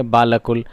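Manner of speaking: "बालकुल" as baa-la-kul, alif pronounced; wrong spelled-out reading. Shown as a demonstration. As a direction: sound out "बालकुल" literally with a long aa. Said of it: "बालकुल नहीं पढ़ेंगे".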